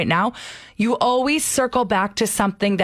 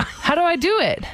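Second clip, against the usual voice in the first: speaking on inhale; 8 semitones higher than usual. Acted. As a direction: voice pulled in on the breath. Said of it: "speaking while breathing in through their nose".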